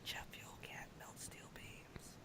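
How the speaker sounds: a slow, eerie, creepy whisper right into the ear. Voicing a cloaked creature leaning close to a character's ear: whispering into a character's ear. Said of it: "It'll whisper to your ear".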